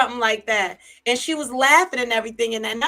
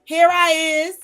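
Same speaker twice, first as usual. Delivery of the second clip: hood saying; 6 semitones higher, 6 dB louder, slower than usual. Retold or imitated. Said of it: "how they say in the hood".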